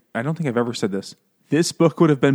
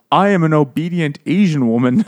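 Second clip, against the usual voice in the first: mock character voice; 3 semitones higher, 7 dB louder than usual. Mocking book character voices.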